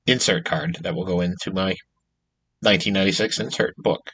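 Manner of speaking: talking through hiccups; hiccuping between words. Real, not acted. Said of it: "I got the hiccups going on here".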